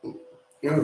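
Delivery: hiccuping mid-sentence; hiccups. Real, not acted. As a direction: catch on a hiccup. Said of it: "I got the hiccups".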